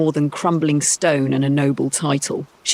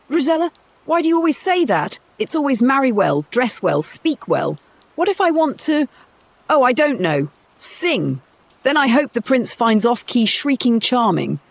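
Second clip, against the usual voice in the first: put-on high, whiny girl's voice, much higher; a spoiled daughter sulking at her mother; petulant high daughter; 8 semitones higher than usual. Daughter sulks at mother about marrying well, high and petulant.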